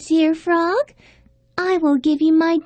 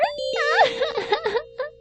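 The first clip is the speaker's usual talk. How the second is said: high sob; 8 semitones higher, 5 dB quieter than usual. Acted. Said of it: "began to cry very loudly".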